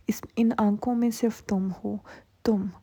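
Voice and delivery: breathy obsessive whisper. Retold or imitated. Nazir whispering his obsession to frightened Mirzan. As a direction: whisper it close, like a secret.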